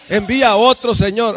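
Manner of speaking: alto y fuerte, rogando que envíe a otro; súplica gritada. Acted. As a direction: suplica a gritos que Dios mande a otro. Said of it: "Moisés no quería". (Moisés suplicando a Dios, a gritos)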